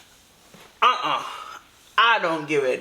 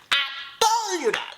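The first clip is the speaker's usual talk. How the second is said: told-you-so; 9 semitones higher than usual. Real, not acted. Gloating again.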